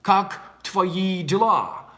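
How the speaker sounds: put-on Russian with a foreigner's American accent. American greeting a native Russian guy, American-accented Russian. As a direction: imitate an American speaking Russian. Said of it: "you're gonna have a Russian accent".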